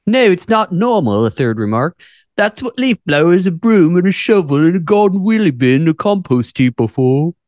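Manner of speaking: high, loud ranting commenter; indignant commenter. Acted. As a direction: list it off in outrage. Reading out a commenter's rant.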